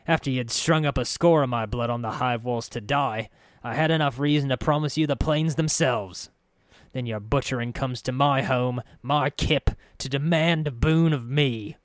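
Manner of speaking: a touch of contained fury, rising; grudging, simmering anger building toward the end; fuming. Acted. Farid confronting the intruder in his home, simmering anger. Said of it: "Farid was fuming".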